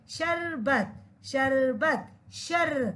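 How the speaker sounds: शरबत and शर said as separate, measured model words; careful pronunciation. Shown as a demonstration. Teacher models words for children, शरबत and शर pronounced with care. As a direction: sound out शरबत and शर carefully, holding the र. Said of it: "दोबारा pronounce कीजिए अच्छे से".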